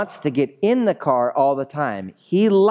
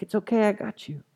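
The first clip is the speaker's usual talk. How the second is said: softer acted comfort after panic; gentle, higher-pitched imagined reply from Jesus; reassuring; 6 semitones higher, 5 dB quieter than usual. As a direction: soothe someone who is scared. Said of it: "He's like".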